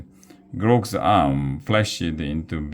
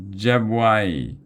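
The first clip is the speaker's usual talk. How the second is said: troll cry; 5 semitones higher than usual. A narrator's reading. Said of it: "cried the troll".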